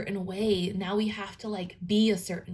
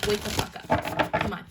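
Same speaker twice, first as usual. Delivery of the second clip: voicing Virgo. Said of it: "Virgo is like".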